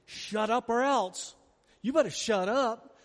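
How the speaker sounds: slow menacing hiss of a threat; threatening warning. Shown as a demonstration. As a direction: warn him off with an or else. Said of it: "many say".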